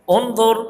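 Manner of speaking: reading the Arabic انظر carefully; Arabic word read out. Shown as a demonstration. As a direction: pronounce انظر the Arabic way, lifted. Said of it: "جیسے".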